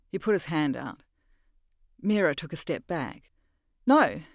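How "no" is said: Mira's defiant no. Acted. Mira refuses.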